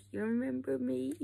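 high, hopeful call; excited greeting. Retold or imitated. Woman calling to chimps from boat, high excited. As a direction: reach out to them with delight. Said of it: "And she was like".

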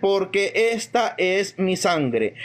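slow, deliberate reading of the Gospel; solemn scripture reading. Acted. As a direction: draw out each word of Christ. Reads the Gospel words solemnly. (lectura lenta y solemne del evangelio)

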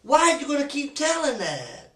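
detective raising his voice at the suspect; angry accusation. Real, not acted. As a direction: drive each word home at him.

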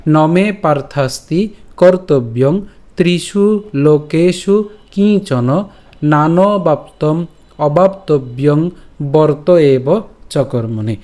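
slow, measured Sanskrit shloka recitation; verse recitation. Shown as a demonstration. Teacher presenting today's Gita verse, slow recitation. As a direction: draw out each word of the verse. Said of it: "আমি আবার বলছি প্রথম থেকে".

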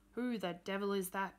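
a gruff old man's hammed-up call; mock shout. Old man answering a knock, a mild gruff shout. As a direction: bark it through a closed door, half-hearted. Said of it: "shouted a voice from inside".

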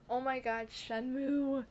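real fangirl excitement; gushing excitement. Real, not acted. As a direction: gush it, leaning hard on the name. Gushing over the game just named.

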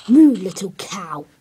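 low mooing voice at the cow; mock moo. Talking to the little cow in a mock moo. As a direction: moo it like a cow, then name it.

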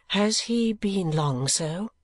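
put-on a pitying young lady; Kate's voice. Kate asks.

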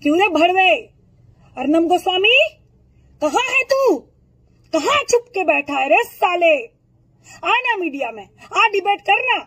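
yelling a taunting challenge, rising to a high shout; angry calling out. Real, not acted. Yelling at Arnab Goswami to show himself, angry calling out.

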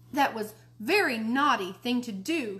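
angry shout. Acted. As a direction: let her anger out at him. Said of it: "she shouted".

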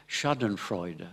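Schadenfreude with a light English accent; drawn-out, mildly English-accented Schadenfreude; slight English accent. Shown as a demonstration. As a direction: say Schadenfreude slowly, a little anglicised in English. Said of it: "avec un peu l'accent anglais".

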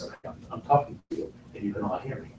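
low-key, soft close-mic talk; barely project, as a screen actor does; soft, underplayed film-actor talk; Nick Nolte. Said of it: "I used to call Nick Nolte a what actor".

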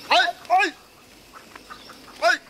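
loud, high cries of protest; protesting yell. Acted. Prisoner yelling while being dragged off, loud protest. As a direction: shout as they drag you away.

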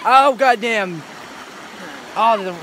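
gasping at the cold water; in ice cold water. Real, not acted. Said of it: "it's cold".

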